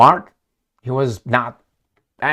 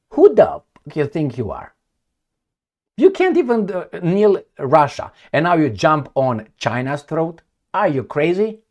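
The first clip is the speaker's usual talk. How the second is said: indignant rant; 3 semitones higher, 3 dB louder than usual. Real, not acted. Ranting at the United States.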